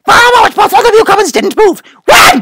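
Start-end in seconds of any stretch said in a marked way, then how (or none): 2.1-2.4 sharp loud command, a bit higher; barked order. Acted. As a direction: bark the word like a king giving orders. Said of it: "barked the king".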